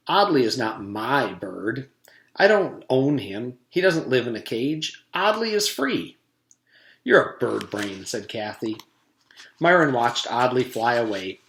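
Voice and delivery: steady read-aloud storytelling voice; story narration. A narrator's reading. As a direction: read it like a chapter book. Reads the chapter aloud.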